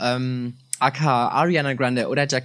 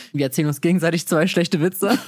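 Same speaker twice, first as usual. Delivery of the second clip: stifled giggles; 3 semitones higher than usual. Real, not acted.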